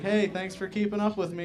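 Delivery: high-pitched impersonation of mom; voicing mom. Dead mom replying to birthday posters, imitated voice. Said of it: "like, as my mom".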